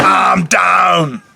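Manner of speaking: big stretched-out holler; yelling enthusiastically. Real, not acted. Host agreeing to Dracula as the next topic, yelling keenly. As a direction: shout it as an all-in agreement. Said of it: "I don't know why we're yelling".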